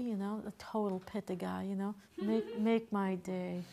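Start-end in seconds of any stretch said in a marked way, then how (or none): 2.2-3.6 slow, lightly growled tough guy with a laugh; a hint of Eastwood, drawn out; Clint Eastwood line. Quoting Clint Eastwood as a total Pitta guy, slow and tough. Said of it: "that Clint Eastwood movie".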